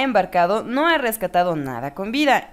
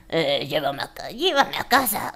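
put-on deep voice that cracks upward; chiquillo fingiendo ser mayor; 6 semitones lower, 3 dB quieter than usual. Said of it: "la voz era así como de". (niño que finge una voz grave)

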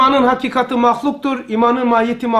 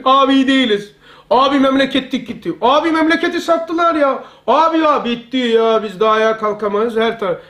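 mildly hammed-up lament, starting raised and tailing down; mock complaining. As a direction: imitate a doom-monger griping to a mate. Imitates pessimists complaining to each other. (yakınan adam taklidi, hafif abartılı)

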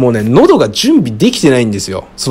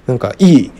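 ordinary delivery

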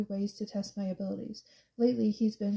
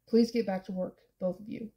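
shouting. A narrator's reading. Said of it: "he shouts at us".

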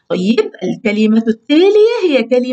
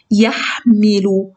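stretched out, syllable by syllable; slow read-aloud; 2 semitones lower, much slower than usual. Shown as a demonstration. Teacher to children, sounding out يحمل slowly. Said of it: "تنطق بصوت عالي".

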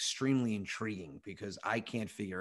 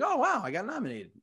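retold excitement; 9 semitones higher than usual. Retells reaction to nomination.

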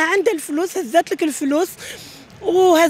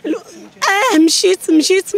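breaking down; 3 dB louder, much slower than usual. Real, not acted. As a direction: voice breaking into a sob. Distraught mother, children missing.

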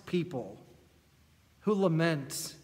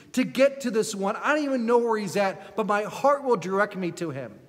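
raised, earnest voice rising to resolve; determined hope; 4 semitones higher, 4 dB louder than usual. Retold or imitated. Bartimaeus resolving to reach Jesus, earnest. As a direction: speak with growing resolve and hope. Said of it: "He knows".

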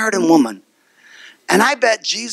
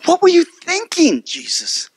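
indignant disciples. Retold or imitated. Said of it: "They all wanted to ask".

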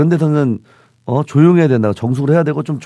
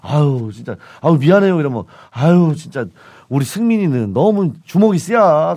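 Chungcheong dialect. Retold or imitated. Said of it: "충청도야?".

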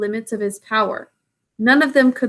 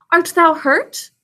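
tender; 7 semitones higher, 3 dB louder, slower than usual. Acted. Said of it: "said Baloo, hugging him softly".

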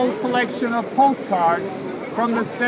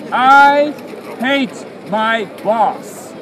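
shouted declaration; 4 dB louder, much slower than usual. Acted. Crier shouts an angry message.

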